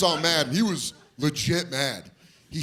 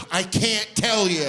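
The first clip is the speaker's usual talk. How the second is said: slow, weary sighed refusal; sighing refusal; 6 semitones higher, 4 dB louder, slower than usual. Retold or imitated. Kid worn down after twenty minutes, slow sighing refusal. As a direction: sigh it out, worn down. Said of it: "I'm just sighing".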